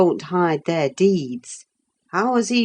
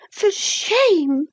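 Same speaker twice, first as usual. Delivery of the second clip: FOR shame repeated, stress on FOR, falling off; angry repeat. Acted. Isabella repeating her rebuke, indignant. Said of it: "she repeated angrily".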